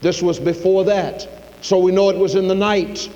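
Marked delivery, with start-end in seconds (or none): 1.6-3.1 raised preacher's voice with weighty pauses; emphatic preaching. Real, not acted. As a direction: preach it out, pitched up.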